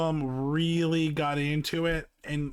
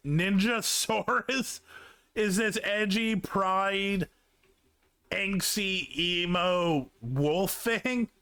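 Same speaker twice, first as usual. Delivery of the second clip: higher, drawn-out teasing gush; mock awe; 5 semitones higher, slower than usual. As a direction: gush over it with playful mockery. Mocking the edgy character.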